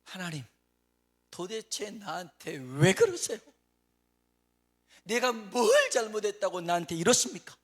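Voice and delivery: 하나님께 크게 따지듯, 느리게; 억울해서 항의하는 기도; complaining to God. Retold or imitated. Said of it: "하나님께 이렇게 따져요". (하나님께 따지는 억울한 외침)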